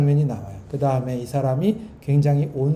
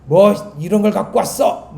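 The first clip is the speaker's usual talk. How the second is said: irritated growl of a convict, a bit higher and louder; angry retort; 4 semitones higher, 5 dB louder than usual. Retold or imitated. Prisoner scolding the cook over sweet potatoes, angry. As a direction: snap at the cook in disgust. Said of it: "화를 내요".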